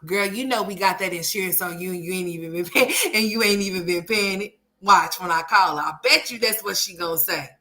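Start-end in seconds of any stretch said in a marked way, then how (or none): 0.1-4.6 lightly voiced mom, a bit sassy; a hint of a sassy mother; mom's smart remark. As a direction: imitate mom's smart-mouthed reply. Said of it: "watch her say something smart".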